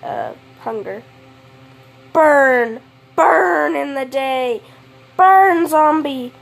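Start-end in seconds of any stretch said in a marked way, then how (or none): 2.1-6.3 yelling. Acted. Yelling at zombies in sunlight.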